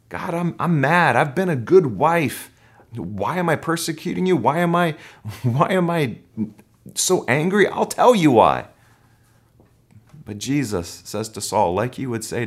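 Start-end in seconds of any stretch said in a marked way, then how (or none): 0.1-8.7 indignant wife. Retold or imitated. Voicing a resentful wife praying.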